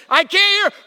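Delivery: very high, imitated yell; loud doctor's demand. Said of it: "she's loud".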